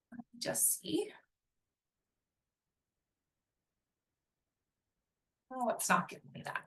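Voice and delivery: hushed, half-whispered aside; barely voiced, as if thinking aloud; muttering to self. Real, not acted. Presenter searching for a slide, muttering very softly to herself.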